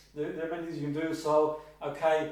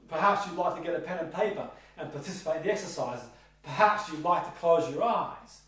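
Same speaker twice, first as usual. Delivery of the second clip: soft suggestion. Shown as a demonstration. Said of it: "In adverse to saying to the client".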